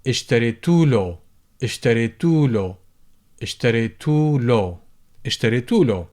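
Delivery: اشتريتوا له, alif dropped; shortened form. Shown as a demonstration. Teacher repeats the shortened form for drilling. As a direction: clip إله down to له. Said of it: "would tend to shorten".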